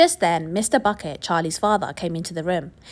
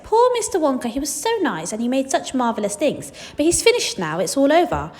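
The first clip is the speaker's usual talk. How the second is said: pitying townsfolk; 5 semitones higher than usual. Acted. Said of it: "everybody said".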